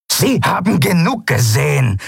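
high, indignant snort; snorted retort. A narrator's reading. Captain cutting off her mate's excuse, snorted retort. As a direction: snap back with contained anger. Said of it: "schnaubte Zaylar".

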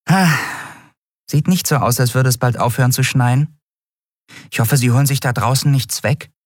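high-pitched little creature, musing; small winged Nelen. Acted. Nelen watches the snow, high-voiced and concerned.

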